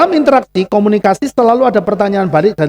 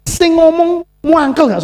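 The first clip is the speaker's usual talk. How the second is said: "muangkel" drawn out slowly, vowel stretched; stressed muangkel; 6 semitones higher, slower than usual. Acted. Preacher asking congregation, "muangkel" stretched out. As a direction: lean into "muangkel" slowly and heavily. Stressing how annoyed the speaker gets.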